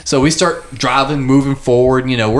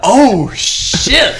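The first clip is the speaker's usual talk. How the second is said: laughing; 9 semitones higher, 4 dB louder, much slower than usual. Real, not acted. Reacting with laughter.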